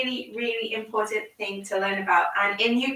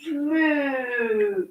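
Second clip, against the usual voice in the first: cow moo. Shown as a demonstration. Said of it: "just like the cows do".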